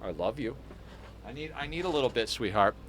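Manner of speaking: soft pet talk. Real, not acted. Owner speaking lovingly to the hamster: soft tender talk. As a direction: coo it gently, like to a tiny pet.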